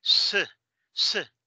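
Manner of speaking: S as a hissed "sss", not "ese"; sustained bare S consonant; letter sound demo. Shown as a demonstration. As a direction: sound out S slowly, twice, separately. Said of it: "La S en casa se pronuncia S".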